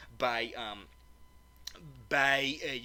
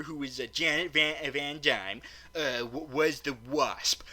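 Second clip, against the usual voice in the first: ordinary talk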